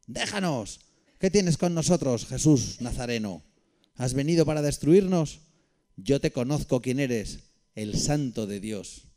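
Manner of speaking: possessed man shouting at Jesus, loud and high; demon crying out. Acted. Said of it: "exclamó a gran voz".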